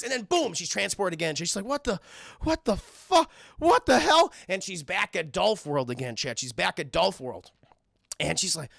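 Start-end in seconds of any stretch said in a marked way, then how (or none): 1.6-4.3 high, loud, stop-start disbelief; mock bewilderment. Girl suddenly transported somewhere else, mock bewilderment. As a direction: act out baffled shock, pitched way up.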